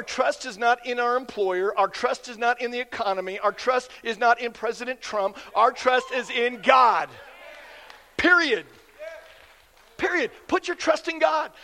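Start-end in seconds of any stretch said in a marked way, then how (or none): 5.6-11.5 loud, slow declaration, each word hammered; preaching shout. Real, not acted. Pastor to congregation, shouting trust in God. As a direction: proclaim it like a final verdict. Pastor driving home his point.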